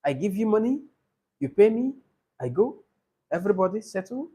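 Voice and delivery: halting Niger English, each short phrase lifting at the end; imitated Niger accent. Teacher mimicking guys from Niger talking money, imitated Niger accent. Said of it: "these guys from Niger? They tell you".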